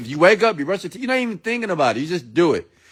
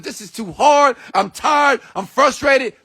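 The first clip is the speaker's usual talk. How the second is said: frustrated shout; 4 semitones higher than usual. Retold or imitated. Preacher voicing a listener's frustrated self-talk, mock yell. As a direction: blurt out the complaints as a mock yell.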